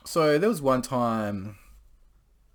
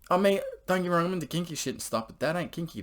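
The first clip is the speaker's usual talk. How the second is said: higher, quick incredulous rant; incredulous high protest; 8 semitones higher, faster than usual. Real, not acted. Teller protests to the audience, higher incredulous rant. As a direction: pitch it up in disbelief.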